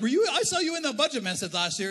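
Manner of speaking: prayer team member asking pointedly; quoting the prayer team. Pretend. Prayer team member asks, acted.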